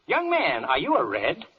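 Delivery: sharp rising what, offended; outraged what. Acted. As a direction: splutter in disbelief. Judge outraged.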